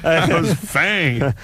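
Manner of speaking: slow gravelly gargoyle growl; grinding stone gravel voice. Pretend. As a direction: grind each word out like stone. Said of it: "the gargoyle voice".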